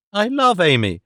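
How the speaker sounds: put-on understated weeping young woman; mild sob in the voice; sobbing protest. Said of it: "cried Miss Fanny, sobbing and weeping".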